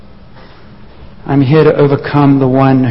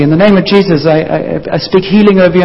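nervous; 4 semitones higher, faster than usual. Acted. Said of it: "And they did it nervously".

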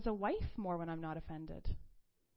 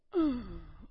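loud imitated sigh; mimicked huff; 5 dB louder than usual. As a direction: huff like an annoyed kid.

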